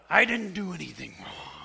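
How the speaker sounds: breathy whisper, almost no voice; whispered plea. Retold or imitated. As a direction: whisper it under your breath. Pastor retells his own inner plea.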